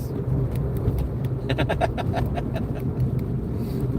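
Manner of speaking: soft, long voiceless chuckle; wheezy laugh. Real, not acted. Streamer joking about packing celery sticks, wheezy laugh. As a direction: wheeze with amusement in steady pulses.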